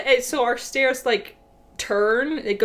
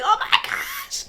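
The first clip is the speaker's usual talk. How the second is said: laughing exasperation; 12 semitones higher than usual. Retold or imitated. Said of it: "I'm like".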